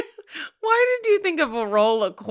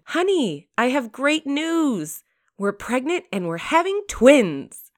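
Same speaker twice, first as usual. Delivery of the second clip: higher, bright-eyed wife voice; blonde wife; 7 semitones higher than usual. Acted. Blonde wife telling husband the news, light mock voice. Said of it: "the blonde tells her husband".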